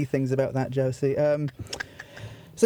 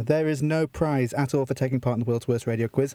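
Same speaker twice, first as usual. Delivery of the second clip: lower, deadpan official reading; mock legal disclaimer; 4 semitones lower than usual. Host reading legal twaddle to contestant, deadpan official. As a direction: read it out like solemn small print. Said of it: "I need to read this legal disclaimer".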